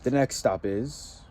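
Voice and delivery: slow, grand guide voice; lightly hammed-up bus conductor; mock tour guide. Vlogger playing spiritual bus guide for viewers, slow and grand. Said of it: "spiritual tormentor for you".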